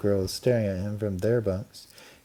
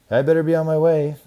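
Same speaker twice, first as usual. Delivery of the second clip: higher, louder dog voice; 7 semitones higher, 8 dB louder, faster than usual. A narrator's reading. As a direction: call out as the dog. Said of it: "said Sam".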